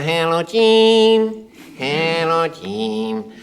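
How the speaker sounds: high, strained and drawn out; Spike's strangulated Jim Spriggs voice. Retold or imitated. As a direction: squeeze the words out slowly. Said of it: "a kind of strangulated voice that Spike used".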